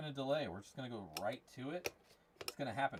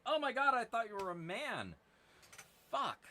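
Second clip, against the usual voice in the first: mock panic; 9 semitones higher, 3 dB louder than usual. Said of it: "I'm like".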